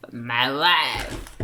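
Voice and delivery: deadpan punchline. Acted. She redoes the ruined comic punchline, low deadpan. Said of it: "she ruined the punchline".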